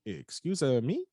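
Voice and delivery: indignant questioning comeback; mock indignant. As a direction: act out being taken aback by a rude remark. Offended reply to manager's jab.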